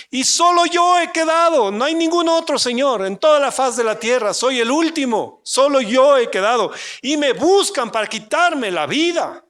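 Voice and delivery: high, loud self-pitying protest; Elijah's complaint. Acted. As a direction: plead your case desperately. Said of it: "Y mire eso". (Elías se queja ante Dios, alto y desesperado)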